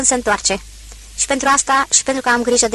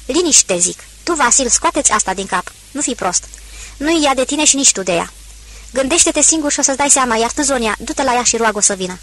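stern command. Acted. Procop orders the family.

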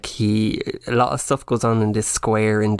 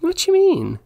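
much higher, louder outraged squeak; mock indignant; 4 dB louder than usual. Co-host calls it nonsense, mock indignant squeak. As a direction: act offended, high and sharp.

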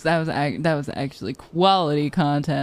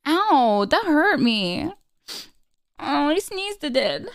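higher put-on animal voice; high pet voice; 6 semitones higher, slower than usual. Streamer voicing a pet enjoying lemonade in a high voice. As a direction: squeal along as the little creature.

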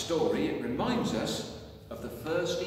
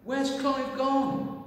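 high, slow worried question; worried little bear; 11 semitones higher, 6 dB louder, slower than usual. Acted. Teddy searching for Clive, high and worried. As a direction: ask in alarm for your friend.

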